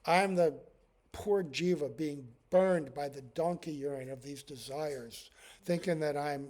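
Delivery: earnest plea to the Lord, rising in force; pleading prayer. Retold or imitated. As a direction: pray like a humble soul begging for release. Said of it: "pray to the Lord".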